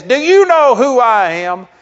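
imitating an entitled man who expects to be recognised; indignant demand. Entitled passenger to the desk clerk, loud indignant demand. Angry traveller demanding special treatment.

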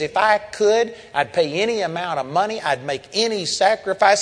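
retold incensed protest. Father protesting to the preacher, retold as incensed. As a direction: act out a father's heated protest. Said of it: "he was just incensed".

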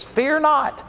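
lifted high, ringing out; angelic announcement. Retold or imitated. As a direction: call it out like a heavenly messenger. Quoting angel's words.

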